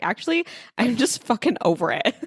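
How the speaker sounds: laughing fed-up quote. Retold or imitated. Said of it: "where we're like".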